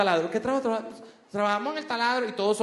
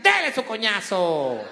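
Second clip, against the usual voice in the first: mocking shop assistants; slower than usual. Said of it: "las dependientes decían".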